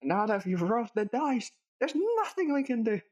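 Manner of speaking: mock ominous voice.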